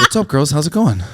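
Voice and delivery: lightly voiced Boston guy; Mark Wahlberg. Man greeting girls as Wahlberg, light impression. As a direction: imitate a Boston actor greeting fans. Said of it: "I can do Mark Wahlberg".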